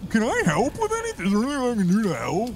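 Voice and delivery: high, eager helper voice; eager Sasquatch. Acted. Sasquatch offering Bello help, high eager voice. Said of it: "he says".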